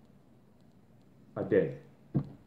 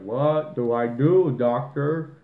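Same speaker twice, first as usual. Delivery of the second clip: mock helpless; 2 semitones higher, slower than usual. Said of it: "you're like".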